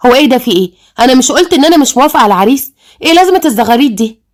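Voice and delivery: mildly sharp, indignant questioning; a touch of sharp protest. Acted. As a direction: challenge them, a little sharply. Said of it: "وقالت بحدة".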